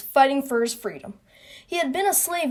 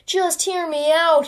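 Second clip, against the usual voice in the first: higher, slow appeal; mild plea; 5 semitones higher, slower than usual. Acted. Wilmot begs the doubting court to listen, mild plea. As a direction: plead lightly, drawing the words out slowly.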